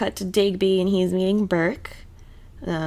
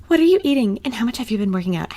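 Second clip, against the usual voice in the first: pry like a nosy mother; mock nagging mother; 3 semitones higher, faster than usual. Mocking the mother quizzing Claire, higher nagging.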